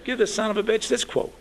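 high, loud, laughing through the line; laughing quote. Retold or imitated. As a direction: gleefully hand over the fake quote. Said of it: "And he says".

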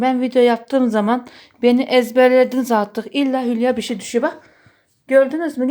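yüksek sesle şikâyet eder gibi; gülerek yakın, hadi yine; heyecanlı sitem. Real, not acted. Hülya düşürüyor, sitem ediyor. (yüksek sesli heyecanlı sitem)

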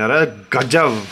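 slow, drawn-out Hindi-style "अरे गजब"; Hindi style exclaim. Retold or imitated. Showing viewers the Hindi way to praise, slow Hindi-style marvel. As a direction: savour it the way a Hindi speaker marvels. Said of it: "Hindi में बोलते हैं".

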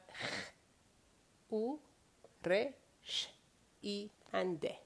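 kh, u, re, sh, i, de spelled out slowly; letter by letter. Shown as a demonstration. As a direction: sound out each letter slowly. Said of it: "look at the Farsi words".

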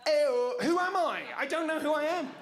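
appalled at himself, laughing; horrified outburst. Real, not acted. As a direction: recoil from your own voice, laughing. Self-disgusted outburst after fake greetings.

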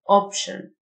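Option ending in "shun"; TIO as SH. Shown as a demonstration. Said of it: "تي اي او تنطق شه".

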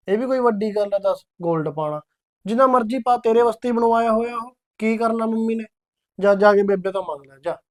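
husband loses patience with his wife's gold demand; exasperated. Acted. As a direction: raise your voice, tired of the fuss.

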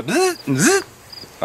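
two short buzzing noises; imitated motor buzz. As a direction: mimic an electric buzz twice.

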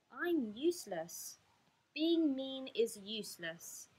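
slow, drawn-out self-reproach; dejected. Acted. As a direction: lament it slowly. Lonely stalk despairs of itself.

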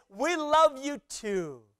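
high, drawn-out call back; shouted reply. Acted. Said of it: "they shout back".

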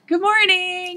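put-on high, sing-song children's TV host greeting; Mister Rogers greeting. Describing mansion mornings to the hosts, a high Mister Rogers voice. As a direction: chirp it like a gentle kids' show host. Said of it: "it was like Mister Rogers' Neighborhood".

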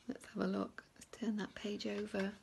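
hushed whisper before the page turn; suspense whisper. Acted. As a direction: keep them in suspense. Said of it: "building suspense for children".

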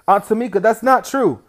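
put-on a boy begging his aunt to believe him; loud pleading denial. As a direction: plead loudly that it's false. Kid protesting to aunt.

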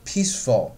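"peaceful" with a long, falling first vowel; stress on peaceful. Shown as a demonstration. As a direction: stretch "peaceful" and give it weight. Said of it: "说得很长啊".

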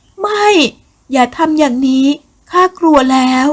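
very high, loud, strained cry of fear; terrified plea. Acted. Woman pleading with Nakhen as he grabs her, high terrified cry. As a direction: scream the refusal, then beg.

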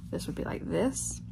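soft unvoiced whisper. Real, not acted. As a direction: whisper it to yourself. Repeats phrase, drops to whisper.

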